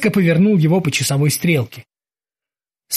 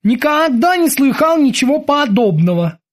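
high-pitched bosun voice; high character voice, declarative; Kiki declaring; 9 semitones higher than usual. A narrator's reading. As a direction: state disbelief in a high voice. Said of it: "заявил Кики".

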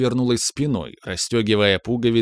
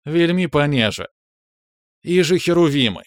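high, amused woman's exclamation; playful outburst, pitched well up; spluttering amusement; 6 semitones higher, 3 dB louder than usual. A narrator's reading. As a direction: toss it out high, on the edge of giggling. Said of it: "прыснула Рита".

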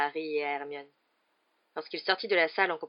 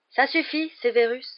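composed but firm check; calm; 8 semitones higher, 8 dB louder than usual. A narrator's reading. Headmaster stopping the raging Severus, calm. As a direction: cut in firmly without shouting. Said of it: "dit tranquillement Dumbledore".

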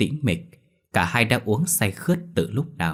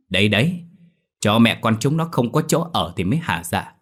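spiteful gloating; 2 semitones higher than usual. Acted. Old woman gloating after wrecking shrine.

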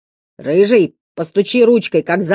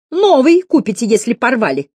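grumbling; 7 semitones higher, 4 dB louder than usual. A narrator's reading. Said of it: "пробурчала девица".

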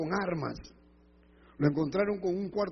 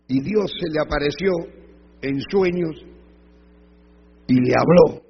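forceful phrases, pauses between, building louder; loud preaching; 12 dB louder than usual. Real, not acted. Preacher reaches the story's climax before the congregation, loudly proclaimed. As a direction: land each phrase hard, then wait.

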